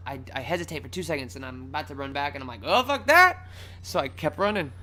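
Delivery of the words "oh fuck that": high, loud dismissal; emphatic retold refusal. Runner gives up on the shoe, emphatically refusing. Retold decision to keep fleeing.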